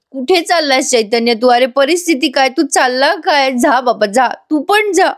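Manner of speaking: mock tearful complaint, pitch jumping up; half-hearted whiny sob; imitating crying. Arjun whines tearfully as his friend walks away, mock crying. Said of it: "रडत असतो".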